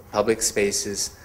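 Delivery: normal talking voice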